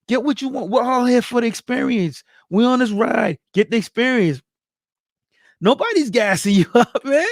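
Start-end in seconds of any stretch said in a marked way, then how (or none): 5.6-7.3 a laugh breaking into the line; amused, laughing it off; laughing insistence. Real, not acted. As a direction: chuckle mid-phrase. Insisting the praise is earned.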